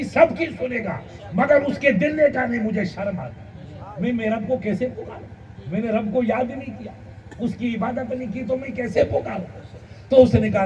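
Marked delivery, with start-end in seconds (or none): 2.5-9.6 softer, ashamed inner voice; a hushed voice of shame; ashamed, hushed refusal. Acted. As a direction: say it quietly, too ashamed to call out. Ashamed merchant refusing to pray.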